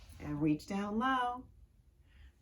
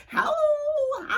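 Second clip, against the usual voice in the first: howl; 8 dB louder than usual. Acted. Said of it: "It says".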